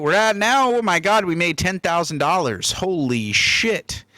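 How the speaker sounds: surprised. Real, not acted. Surprised at earnings.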